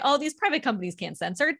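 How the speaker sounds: mock-condescending quote of critics. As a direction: parody their smug talking point. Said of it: "that's how they always say it".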